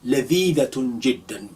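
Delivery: lightly voiced delighted eater; a touch of relish in the voice; mock enjoyment of the dates; sample sentence acted out. Shown as a demonstration. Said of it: "You can say".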